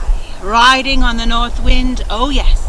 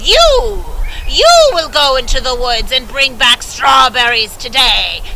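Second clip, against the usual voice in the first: louder sharp command; bossy stepmother; 4 dB louder than usual. Acted. Stepmother orders her own daughter, louder. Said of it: "and she said".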